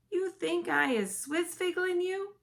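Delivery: high, loud indignant giant; the BFG taking offence; offended giant. A narrator's reading.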